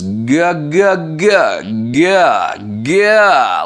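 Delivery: loud vocal exercise on "ga", swooping high; pressed, swooping ga calls, like talking; compressed "ga" warm-up. Shown as a demonstration. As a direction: engage the cords on each ga. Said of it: "warming up into this compression".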